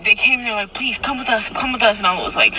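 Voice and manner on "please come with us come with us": a mild, higher pleading; coaxing. Retold or imitated. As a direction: gently urge someone to come along. Churchgoers coaxing her, retold.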